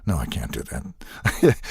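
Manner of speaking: a touch of awkward deadpan thinking aloud; flummoxed Agent 47. Acted. Test tube killing machine thrown by flamboyant character, mildly flummoxed. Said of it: "totally flummoxed by".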